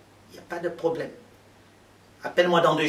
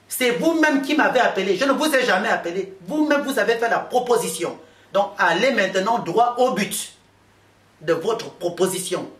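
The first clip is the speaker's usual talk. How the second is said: higher and louder, hammering the accusation; indignant retort; 4 semitones higher, 4 dB louder than usual. Retold or imitated. To Seydou, who denies calling: indignant, raised voice. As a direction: throw it back at him, indignant.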